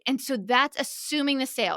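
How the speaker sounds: ordinary talk, nothing marked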